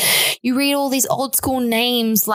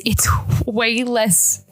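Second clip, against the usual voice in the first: whispered through a giggle; laughing; much slower than usual. Real, not acted. Laughing whisper mid-sentence.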